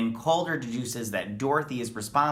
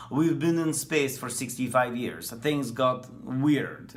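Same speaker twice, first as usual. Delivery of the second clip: put-on Russian accent; slower than usual. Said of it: "Sorry about my Russian accent".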